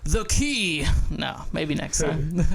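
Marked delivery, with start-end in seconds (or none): 0.0-0.8 higher, hammed-up profound voice; put-on voice. Shown as a demonstration. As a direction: try out a grand quote voice. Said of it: "some sort of voice".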